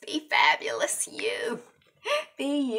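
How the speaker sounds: whispered sign-off, voice dropped to breath. Shown as a demonstration. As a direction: whisper it like a secret to the viewer.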